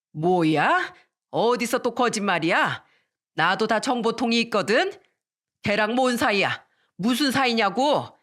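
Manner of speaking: lightly acted jealous wife; hammed-up suspicious scolding; angry interrogation. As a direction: press a husband with cross questions.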